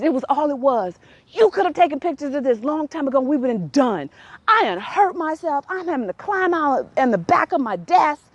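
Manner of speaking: retold indignant rant; exasperated complaint. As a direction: keep pleading your case to mom. Acted complaint while mom chuckles.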